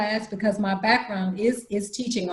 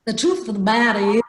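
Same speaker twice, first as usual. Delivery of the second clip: loud, firm man's voice; a hint of a blunt man; 6 dB louder than usual. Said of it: "I was talking like a man".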